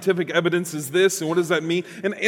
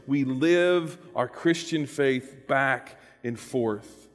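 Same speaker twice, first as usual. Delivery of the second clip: slow emphatic; 3 semitones lower, much slower than usual. Shown as a demonstration. Preacher echoes the line slowly.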